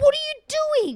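very high frustrated voice. Showing their frustration voice, which is not a scream: mock-frustrated question. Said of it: "it's like a frustration voice".

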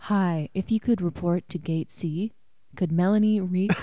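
mock airport gate PA announcer voice. Joking about talking like airport announcements, airport announcement voice. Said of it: "I was more thinking like airport announcements".

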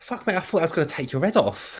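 very high-pitched, put-on Essex accent. Asked to do it again, redoing a woman's words in a put-on Essex accent. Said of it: "Do that again?".

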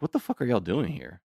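hushed, soft voice. Retelling a scene at the restaurant, imitating his sister. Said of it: "his sister's like".

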